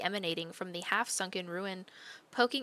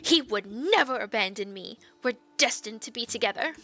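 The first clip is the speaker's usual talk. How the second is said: mild snap; 3 semitones higher, 5 dB louder than usual. Acted. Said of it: "snaps at you with sudden vitriol".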